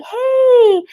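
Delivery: imitating a family greeting; friendly greeting. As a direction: greet someone you love on sight. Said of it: "you'd be like".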